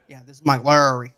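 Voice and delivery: bad impersonation. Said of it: "that's not how he talks".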